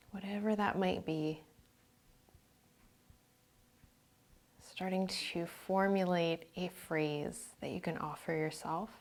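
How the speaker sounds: calm meditation voice, phrases spaced by silence; guided meditation. Real, not acted.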